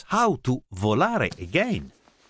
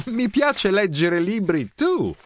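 put-on agreeing girl; 8 semitones higher than usual. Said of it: "agreed Zoe".

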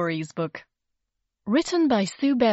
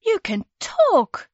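much higher, louder, slow astonishment; children stunned that the baby speaks; amazed; 11 semitones higher, 6 dB louder, slower than usual. A narrator's reading. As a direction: gasp it out in disbelief. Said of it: "said Percy and Mary".

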